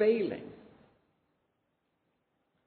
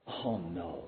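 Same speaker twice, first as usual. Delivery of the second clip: exasperated sigh; 10 semitones lower, 10 dB quieter than usual. Retold or imitated. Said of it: "those exasperated sighs".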